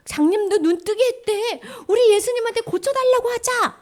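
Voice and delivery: high, urgent storytelling voice; excited rumor-sharing. Acted. Lepers urging each other to go to Jesus, excited. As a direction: urge your friends on with rising excitement.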